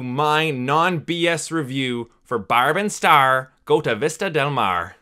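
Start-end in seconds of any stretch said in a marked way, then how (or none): 2.4-5.0 put-on drawling accent on the title; mock title accent. Reviewer hamming up the title in a mock accent. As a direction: draw out the movie title in a silly put-on accent. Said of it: "I will not be doing that accent".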